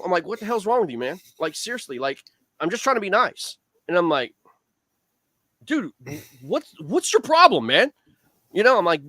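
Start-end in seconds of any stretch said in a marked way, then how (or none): 0.2-3.6 higher, fed-up demand; mock-furious, don't-you-dare tone; ripping into a boater who won't answer, mock outrage; retold rant. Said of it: "absolutely ripping him". 5.6-7.9 much higher, louder confrontation; hammed-up challenge, picking a fight; confronting a silent boater, hammed-up angry yell; mock yell. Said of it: "chewing him out".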